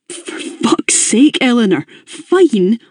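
slow, high exasperated swearing; exasperated outburst. A narrator's reading. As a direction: burst out at her flat reply.

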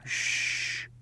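soft, unvoiced shush; father whispering to calm his son; whispered hush. A narrator's reading. Father hushes boy at night.

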